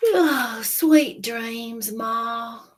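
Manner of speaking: drowsy and sweet; gosling goodnight. Acted. Gosling saying goodnight to Jack. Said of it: "said the baby goose".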